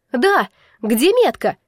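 loud, drawn-out taunt with swooping pitch; snide. A narrator's reading. Fey joins in from the other side, snide. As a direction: needle her mockingly. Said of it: "ехидно подхватила Фея".

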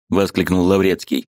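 ordinary delivery

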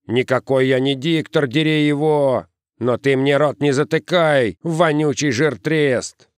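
high, indignant comeback; angry squabbling. A narrator's reading. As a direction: argue back and hurl the insult. Перебранка в толпе парней.

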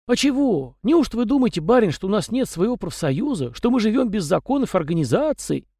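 high, folksy little peasant voice; chatty house spirit. A narrator's reading. House spirit Tikhon rambling to the young master, high and folksy. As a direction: prattle on as a talkative domovoi.

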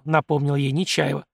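usual speaking voice

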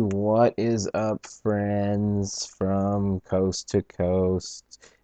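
slow, drawn-out cheesy host voice; mock radio host. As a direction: stretch it out like a corny radio host. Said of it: "Could you imagine if I really talked like that".

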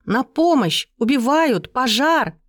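screaming for help from the road; shouting for help. A narrator's reading. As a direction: call out for rescue at full voice. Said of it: "закричала я так громко".

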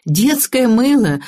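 slow, high, amused delivery; high-pitched, drawn-out merriment. A narrator's reading. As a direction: draw it out with amusement. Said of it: "развеселилась я".

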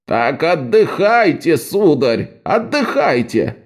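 slow, exasperated insistence; irritated. Acted. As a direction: snap at a stubborn patient. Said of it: "раздражённо произнёс Эбелиус".

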